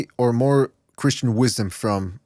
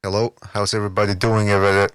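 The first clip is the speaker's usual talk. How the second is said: distorted voice; 4 semitones lower than usual. Shown as a demonstration. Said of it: "I'm gonna put some distortion on my voice here".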